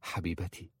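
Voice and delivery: hushed, longing endearment; soft, eager tenderness; yearning. A narrator's reading. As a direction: answer softly, full of longing. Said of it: "وقال في لهفة".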